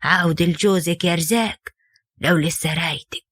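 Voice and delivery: low, slow, sorrowful mother's plea; gently grieving as she advises her daughter; sad. Acted. Mother sadly urging her daughter to go back, low and slow. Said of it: "ردت عليها أمها بحزن".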